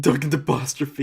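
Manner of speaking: "Duncan apostrophe" mushed into nonsense; words as noise. Shown as a demonstration. Friend echoing the running joke, "Duncan apostrophe" garbled. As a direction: swallow the middle of "Duncan apostrophe". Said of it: "evolved into us making noise".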